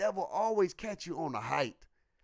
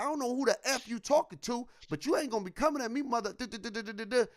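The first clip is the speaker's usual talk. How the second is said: higher-pitched, rushed censored rant; retold upset cussing; 5 semitones higher, faster than usual. Replaying his cussing at his partner, upset. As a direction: act out a cussing tirade, swears skipped. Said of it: "get me really upset to get me to start cussing".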